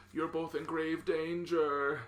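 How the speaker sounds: slow, ominous mock-assassin line; hammed-up grave announcement; dramatic warning. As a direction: draw it out like a movie threat.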